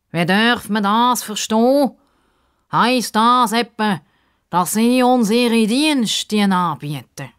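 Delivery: high, slow, stiff formal gentleman; slow high formal voice, loud; pompous Justus. Acted. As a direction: speak like a fussy, proper little gentleman.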